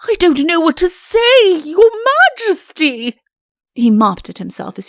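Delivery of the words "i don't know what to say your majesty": high, loud, frantic pleading; flustered panic. A narrator's reading. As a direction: babble in a panic, much higher. Chancellor panics after waking.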